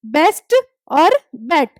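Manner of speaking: slow, spaced बेस्ट और बेट; demonstrating B and T. Shown as a demonstration. Teacher shows B and T in both words, slow demonstration. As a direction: pronounce "बेस्ट और बेट" word by word. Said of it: "दोनों में बी और टी की sound".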